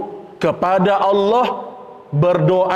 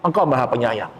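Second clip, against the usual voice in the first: plaintive plea. Retold or imitated. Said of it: "Seakan-akan Ayub mengadu".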